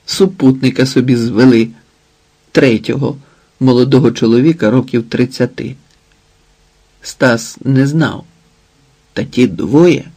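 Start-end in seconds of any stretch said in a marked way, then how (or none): none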